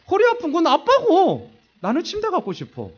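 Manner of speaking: put-on high, loud kid voice through laughter; mock the kids' cheeky reply, laughing; 웃으며 흉내 낸 아이. 아이들 반항을 흉내. (웃음 섞인 높고 큰 아이 목소리 흉내)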